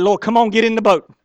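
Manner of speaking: hammed-up cowardly pleading; frantic loud plea. Preacher playing a coward begging Jesus, loud urgent plea. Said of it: "I'd be like".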